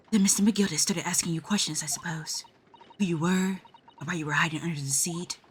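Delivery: put-on a courteous young woman making a sad farewell; polite assistant voice. Judicial assistant bidding the girl goodbye, softly grave.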